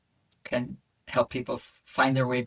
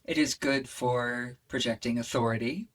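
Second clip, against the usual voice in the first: earth voice; 3 semitones lower than usual. Shown as a demonstration. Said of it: "if I bring that earth voice into how I might normally speak".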